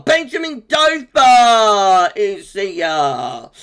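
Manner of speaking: mock announcement. Reading out a joke viewer name.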